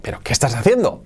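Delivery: "¿Pero qué estás haciendo?" quick, rising at the end; fast questioning "qué estás haciendo"; Spanish intonation. Shown as a demonstration. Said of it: "daremos una entonación, diríamos".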